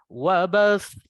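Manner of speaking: wabas slow, voice up on the end; rising ending. Shown as a demonstration. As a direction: raise the final sound of wabas. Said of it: "Jadi naik ya, suara akhir".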